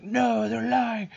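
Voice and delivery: high-pitched mock villainess; hammed-up high wicked manipulator; evil lady. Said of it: "the evil lady starts to lose her grip".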